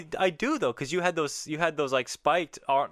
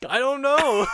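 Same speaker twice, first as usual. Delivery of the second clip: laughing; 13 semitones higher than usual. Real, not acted. Guest laughs at her struggle with the name, laughing high. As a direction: laugh it out helplessly.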